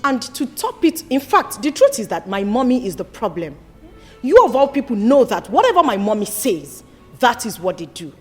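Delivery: low earnest plea. Acted. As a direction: confide the betrayal to uncle. Daughter pleading quietly to uncle.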